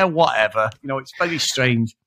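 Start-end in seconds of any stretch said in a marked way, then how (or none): 0.0-0.7 imitating an offhand brush-off, a little lower; not bothered. Captive about to be killed, mock unbothered brush-off. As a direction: shrug it off as if unbothered. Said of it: "doesn't seem to give a shit".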